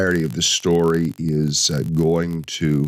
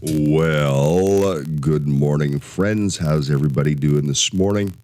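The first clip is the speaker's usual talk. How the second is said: congested, blocked-nose voice; stuffy nose. Real, not acted. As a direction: talk through a stuffy head cold. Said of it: "congested sounding".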